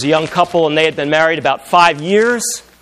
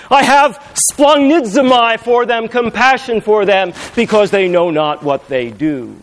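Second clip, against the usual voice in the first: a lightly raised, pleading voice of Jesus; Jesus forgiving from the cross, gently raised; Jesus speaking; 4 semitones higher than usual. Acted. Preacher voicing Jesus on the cross, lightly raised.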